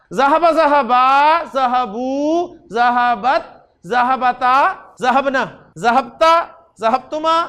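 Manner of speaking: measured conjugation chant, endings drawn out; drill recitation. Shown as a demonstration. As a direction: recite form by form, each separated by a small pause. Recites the full conjugation table.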